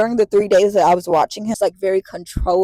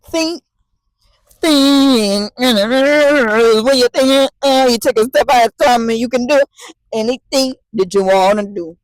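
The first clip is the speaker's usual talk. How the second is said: a hint of a singsong children's host, louder; mock kids' show host; 3 semitones higher, 5 dB louder than usual. Vlogger mocking her helplessness, hint of a cheery kids' host.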